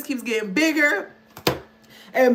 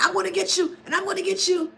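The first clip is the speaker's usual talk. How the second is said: mock narcissist voice; 6 semitones higher, much faster than usual. Voicing the narcissist's thoughts again.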